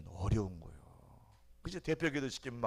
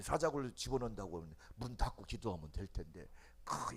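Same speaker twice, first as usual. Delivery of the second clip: normal talking voice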